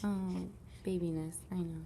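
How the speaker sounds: ordinary talk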